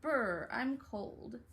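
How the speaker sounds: drawn-out cold shiver; slow "brr" like freezing. Acted. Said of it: "brother say".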